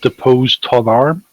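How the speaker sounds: slow French phrase with rising end. Acted. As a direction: say it slowly as a Bretonnian would, in French. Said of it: "They would say".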